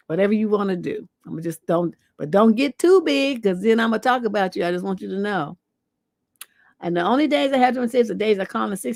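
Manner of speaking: normal talking voice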